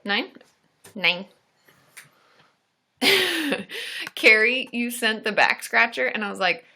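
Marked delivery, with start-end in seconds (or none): 3.0-4.1 high-pitched burst of laughter; real laugh. Real, not acted. Host remembers a back scratcher gift, laughing.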